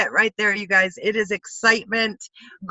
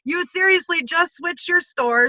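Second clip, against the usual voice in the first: much higher, bubbly friend gushing over a one-dollar store; imitating a thrilled friend, pitched way up; excited April Tucker; 8 semitones higher, 3 dB louder than usual. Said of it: "She was so excited".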